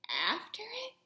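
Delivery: unvoiced, hushed question; scared, nobody wants to go; whisper. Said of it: "we all whispered".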